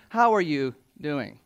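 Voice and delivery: sincere, unhurried "How are you doing?" with weight on "How"; caring. Shown as a demonstration. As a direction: ask "How are you doing?" like you truly want to know. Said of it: "No, no, no".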